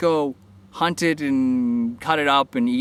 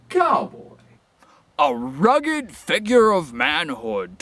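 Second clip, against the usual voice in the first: high laughing shout; 4 semitones higher, slower than usual. Pretend. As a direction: blurt it out through a laugh. Laughing mock announcer.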